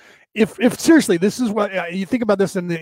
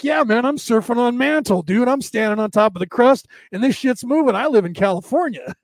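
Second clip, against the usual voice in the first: lightly voiced California surfer; surfer dude; 3 semitones higher than usual. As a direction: talk like a laid-back surfer bro. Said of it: "the surfer dude".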